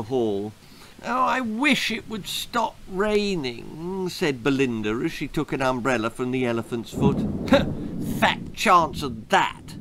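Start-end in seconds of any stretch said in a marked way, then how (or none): 1.0-4.1 wistful. Acted. Daughter wishing rain away. 8.2-9.8 muttered. Acted. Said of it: "muttered Percy".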